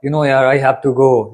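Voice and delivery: slow, easygoing, a bit reluctant; loose, relaxed confidence. Shown as a demonstration. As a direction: say it casually, like it's a chore you can't avoid. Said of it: "थोड़ा सा loose confidence होके बोलेंगे". (ढीले आत्मविश्वास से, आराम से)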